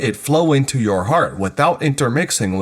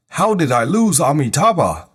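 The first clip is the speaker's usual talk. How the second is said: alert self-questioning; 4 semitones higher than usual. Acted. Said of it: "you must be alert immediately".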